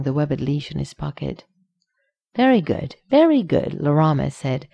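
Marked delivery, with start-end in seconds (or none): 2.4-2.9 high, beaming delight; high overjoyed praise. A narrator's reading. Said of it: "sounding near overjoyed". 3.1-3.7 higher still, bubbling over; climbing, gushing delight; even more overjoyed. A narrator's reading. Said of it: "sounding near overjoyed".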